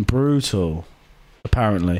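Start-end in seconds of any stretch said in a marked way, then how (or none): 1.4-2.0 whispered aside. Real, not acted. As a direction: breathe it as a whisper. Whispered aside after spoiler.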